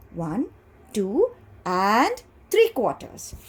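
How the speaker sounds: slow, measured words with pauses; say-along modelling. Shown as a demonstration. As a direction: model it slowly for the class to repeat. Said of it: "Say it".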